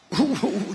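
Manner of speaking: brief amused chuckle; a quick laugh at his own words; short chuckle. Real, not acted.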